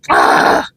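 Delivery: put-on kids' groan. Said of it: "they go".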